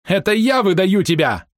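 high, slow, drawn-out furious cry; enraged shriek. A narrator's reading. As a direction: turn the threat back, beside yourself with rage. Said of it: "взвизгнул он вне себя от гнева". (визг, вне себя от гнева)

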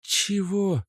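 high stunned question; can't believe what she heard; girlfriend, incredulous. A narrator's reading. Natasha stunned by Oleg's claim.

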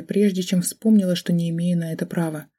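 plain reading voice

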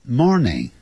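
Good morning, slowly and clearly; slow model phrase. Shown as a demonstration. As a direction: say it slow for learners. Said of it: "要说".

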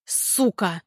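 long, annoyed, muffled curse through bitten hand; drawn-out displeased curse. A narrator's reading. Thug bitten by the girl, drawn-out annoyed curse. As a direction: drag the curse out in irritation. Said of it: "протяжно недовольное".

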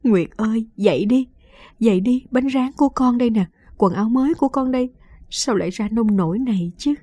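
a grandmother coaxing through panic; mild tearful plea; distraught pleading. Acted. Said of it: "rồi lại gọi tên cháu".

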